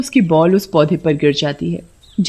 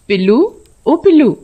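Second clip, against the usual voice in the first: higher-pitched searching call; 5 semitones higher, 3 dB louder than usual. Acted. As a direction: call for a missing pet. Sona calls for her missing pet. (ढूंढते हुए पुकारना)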